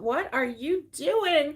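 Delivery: retold, half-hearted freak-out. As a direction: imitate a stunned passenger, stretching each word. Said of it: "like, freaking out".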